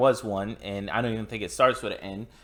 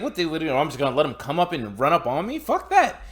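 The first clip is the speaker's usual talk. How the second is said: louder and faster, jumping way higher on the last "Fuck that"; mock indignant; 4 semitones higher, 3 dB louder, faster than usual. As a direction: justify the shot, then spike up. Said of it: "I was like".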